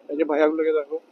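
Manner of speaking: muffled inside helmet; talking through a helmet visor. Real, not acted. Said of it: "আর আমি বোকাচোদার মতো helmet পরে আছি".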